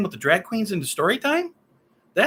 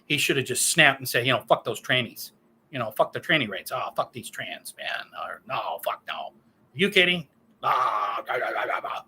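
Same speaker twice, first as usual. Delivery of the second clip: imitating conservative commenters; 5 semitones lower than usual. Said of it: "Conservatives commenting saying".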